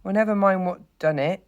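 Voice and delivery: high, loud, aggrieved complaint; pained. A narrator's reading. Hurt mole to the puzzled rat, pained. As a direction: brush the question aside through the pain. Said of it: "forgetting his grammar in his pain".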